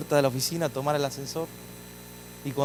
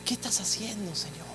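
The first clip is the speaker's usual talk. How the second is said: tearful prayer; 2 semitones higher, 9 dB quieter than usual. Retold or imitated. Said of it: "me arrodillaba y lloraba y decía".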